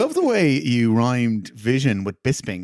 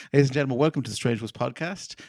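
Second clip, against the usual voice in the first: radio host intro; faster than usual. Pretend. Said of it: "we're so professional here".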